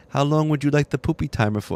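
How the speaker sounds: a hint of the helpful device voice; Alexa. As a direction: mimic a voice assistant asking a question. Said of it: "And then Alexa goes".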